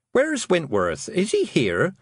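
high, anxious questioning; urgent. Acted. Mother looking for missing Wentworth, urgent. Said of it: "her mother asked urgently".

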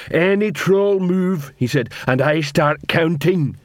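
troll warning. Acted. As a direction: warn the trolls slowly, weighing each word.

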